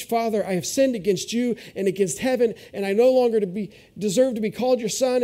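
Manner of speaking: nervous, hurried pleading; son's speech. Retold or imitated. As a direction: stumble through a rehearsed apology. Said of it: "began his speech".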